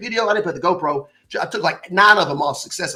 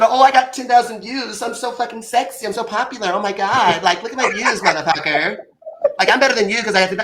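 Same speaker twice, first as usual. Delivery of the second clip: mock show-off; 3 semitones higher than usual. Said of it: "not that".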